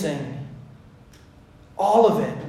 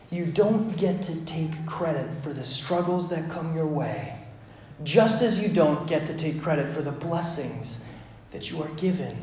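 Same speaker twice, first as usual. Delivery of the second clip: softer, letting each phrase settle; quiet, reflective repeat; 7 dB quieter than usual. Real, not acted. Preacher letting congregation rest in that, soft and reflective. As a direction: say it softly for them to sit with. Sit in that for a moment.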